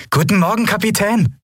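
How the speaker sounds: put-on bright, high-pitched cheerful hello from the cabin boy; eager young lad calling out good morning; beaming boy greeting. A narrator's reading. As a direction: greet the captain like a summer morning.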